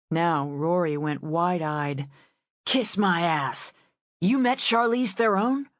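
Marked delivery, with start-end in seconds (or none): 2.7-5.7 amazed disbelief. Acted. Rory amazed at Callan's story.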